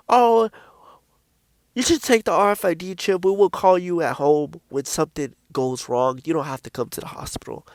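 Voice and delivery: mock sweet doctor trailing off into a whisper; lightly voiced smooth-talking doctor, sinking to a hush; snake-like sweet doctor. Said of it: "they talk so sweet and so, like, snake-like".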